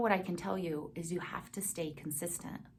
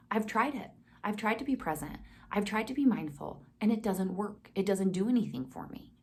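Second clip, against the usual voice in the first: mildly exasperated, slightly raised pitch; retold frustration; 3 semitones higher than usual. Meditation teacher retelling her old struggle to be present, mildly frustrated. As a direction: recall being fed up, insisting on each failed try. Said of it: "I would get so frustrated".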